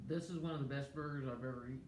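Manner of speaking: fast words through a bite; mouth full. Real, not acted. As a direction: talk around a mouthful. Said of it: "I talk with my mouth full".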